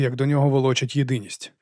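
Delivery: plain reading voice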